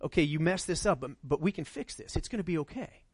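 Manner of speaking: put-on soft, reassuring talk to a kid who messed up; gentle parent. Parent soothing a child after a mistake, gently reassuring. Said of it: "the conversation you have with your kids".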